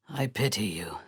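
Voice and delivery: low voiceless whisper; hushed pitying whisper. Acted. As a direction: hiss it softly, close in. Intimate taunt, whispered.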